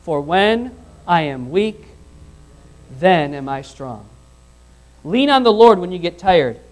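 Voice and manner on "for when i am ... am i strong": scripture reading. Shown as a demonstration. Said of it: "read the last part with me".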